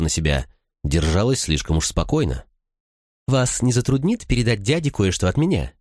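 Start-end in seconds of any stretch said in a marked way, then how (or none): 3.3-5.7 offhand. A narrator's reading. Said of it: "небрежно бросила леди Клис".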